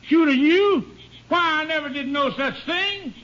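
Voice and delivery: outraged that he'd be accused; indignant surprise. Acted. Accused man protests innocence.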